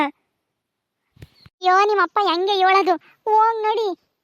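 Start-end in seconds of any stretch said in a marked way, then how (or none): 0.0-1.9 long wail. Acted. Mother wails in despair.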